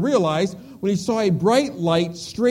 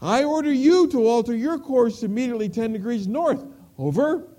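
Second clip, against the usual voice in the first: firm counter-order, pitched higher; private answering back; 5 semitones higher, 3 dB louder than usual. Acted. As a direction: order a superior to turn, lightly acted. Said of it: "came the private's voice again".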